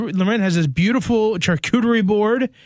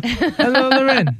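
lightly imitating Elena; 5 semitones higher, slower than usual. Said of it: "emulate Elena on the radio".

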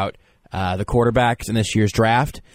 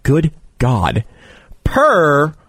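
excited; 3 semitones higher, 5 dB louder, slower than usual. Acted. Hyped stat read, tongue-tied.

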